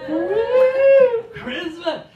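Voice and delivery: high loud woo; cheering the crowd for Christmas. Real, not acted. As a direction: whoop it out. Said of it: "Christmas cheer".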